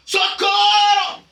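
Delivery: high, loud, drawn-out cry; panicked cry for help. Acted. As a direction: scream for help as if sinking. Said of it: "eles começaram a gritar". (grito desesperado de socorro)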